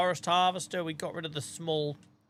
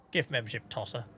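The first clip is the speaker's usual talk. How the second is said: laughing; 4 semitones lower, faster than usual. Real, not acted. Jokingly quoting viewer nickname.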